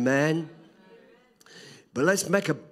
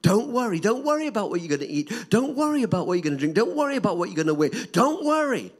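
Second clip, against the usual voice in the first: raised preaching voice, quick in the middle; Jesus quoting; 7 semitones higher, 5 dB louder, faster than usual. Retold or imitated. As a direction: proclaim Jesus' words loudly to the congregation. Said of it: "Jesus said it so often".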